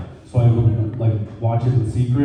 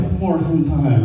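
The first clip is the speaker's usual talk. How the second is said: mock TV announcer; 3 semitones higher, slower than usual. Phone plays show catchphrase.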